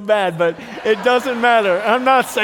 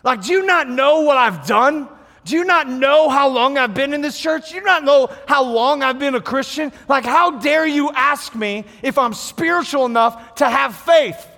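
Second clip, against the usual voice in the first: indignant churchgoer; 3 semitones higher than usual. Retold or imitated. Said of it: "a lot of people go".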